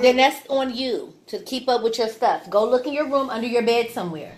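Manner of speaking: loud, fast, annoyed call; yelling across the room. Real, not acted. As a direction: shout the answer down the hall. Scolding kid across house.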